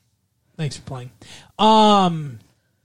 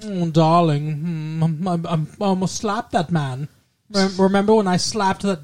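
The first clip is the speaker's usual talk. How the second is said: Zsa Zsa impression. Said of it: "that doesn't sound like her at all".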